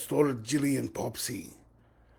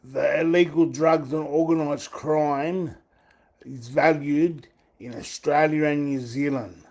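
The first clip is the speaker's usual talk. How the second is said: loud, firm demand to the assistant; loud question; 3 semitones higher, 8 dB louder than usual. Real, not acted. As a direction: make yourself heard to the machine. Loudly questioning the AI.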